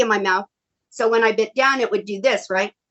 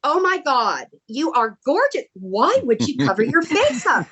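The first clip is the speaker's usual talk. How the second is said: retold amazement; 4 semitones higher than usual. Acts out Stone amazed at photo.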